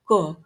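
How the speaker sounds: क made far back at the uvula; क as an Arabic uvular consonant; uvular Arabic sound. Shown as a demonstration. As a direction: say क with tongue back against the uvula. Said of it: "ओव्यूलर sound बनती है".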